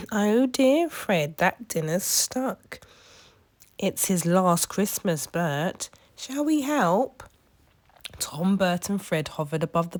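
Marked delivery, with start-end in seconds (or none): 0.1-2.8 high squawky bird voice, slow; a cheeky gull fussing; seagull voice. A narrator's reading. A seagull telling Fred the dinner is stuck, squawky voice. 3.8-7.2 high squawky bird voice, slow; a cheeky gull fussing; seagull voice. A narrator's reading. A seagull telling Fred the dinner is stuck, squawky voice.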